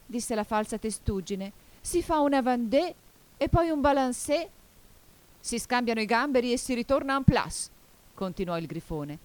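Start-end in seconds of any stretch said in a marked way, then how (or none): 1.8-7.7 high-pitched, raised storybook voice; excited dance calls. A narrator's reading. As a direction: call out the dance steps eagerly. Creatures excitedly calling out dance figures.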